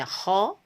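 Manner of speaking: ho said only a bit thick, lighter. Shown as a demonstration. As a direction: ease off the thickness a little. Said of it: "kalau di kasro dia sedikit menurun".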